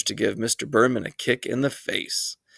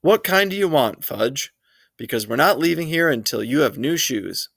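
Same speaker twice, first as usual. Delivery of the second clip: high, pointed, no-nonsense demand; mean every word; a mother laying down the law to a tantrum; firm mother; 4 semitones higher than usual. Acted. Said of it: "like she meant it".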